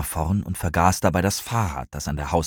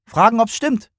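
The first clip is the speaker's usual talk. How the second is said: high, loud, excited answer; bold, raised-voice excitement; eager call; 7 dB louder than usual. A narrator's reading. Eager friend calls out plan.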